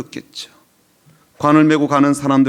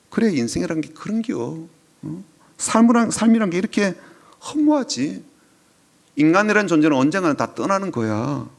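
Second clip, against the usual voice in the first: higher, sighing it's-all-vanity tone; mock dismissive comfort; 3 semitones higher than usual. Preacher mocking the cold comfort Jesus never gave, higher and dismissive. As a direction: brush off her grief with a shrug in the voice. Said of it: "그렇게 말씀하지 않으셨다는 거예요".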